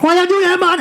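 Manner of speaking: high-pitched imitated Jamaican Rasta; Jamaican accent. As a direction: call it out in a put-on Jamaican accent. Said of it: "really thick Jamaican accent".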